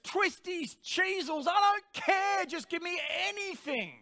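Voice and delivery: high, loud craving outburst; loud demanding flesh. Retold or imitated. Preacher acts out his hungry flesh's cravings, loud and demanding. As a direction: demand it loudly, pitched right up. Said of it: "this voice was getting louder and louder".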